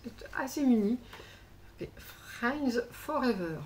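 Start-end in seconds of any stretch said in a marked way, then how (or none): 1.8-3.6 slow, slightly raised French-accented English read; reading an English phrase with a self-mocking English accent. Shown as a demonstration. French vlogger reading a card's English words, self-mocking English accent. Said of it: "Toujours mon accent anglais extrêmement génial".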